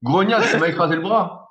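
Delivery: jokey, put-on indignation; mock angry complaint. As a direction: play-act rudely waking someone. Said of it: "je la secoue comme un prunier".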